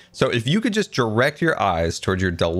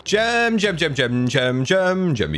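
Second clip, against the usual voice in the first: excited calling out. Real, not acted. Calling friend who just logged on.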